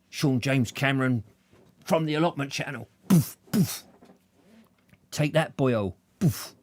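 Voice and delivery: playful high-pitched Welsh fighter; hammed-up Welsh accent with punching noises; jokey Welsh tough guy announcing himself; mock Welshman. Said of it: "You know how these violent Welshmen are".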